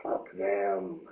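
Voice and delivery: high, slow coaxing inner voice; the addict's inner voice luring him back; voice of addiction. Retold or imitated. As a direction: tempt yourself sweetly, drawn out. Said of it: "a part of you that says".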